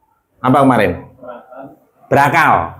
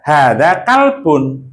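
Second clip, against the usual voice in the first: "hada kalbun" drawn out, falling to a close; slow model answer; 2 semitones higher, much slower than usual. Shown as a demonstration. Teacher answers the model question, slow falling "hada kalbun".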